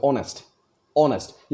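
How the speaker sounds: light first syllable, firmer ending in "ऑनेस्ट"; stress on second syllable. Shown as a demonstration. Teacher demonstrating an iamb, "ऑनेस्ट" stressed on its second syllable. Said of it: "इतना force नहीं पड़ रहा है जितना कि नेस्ट में".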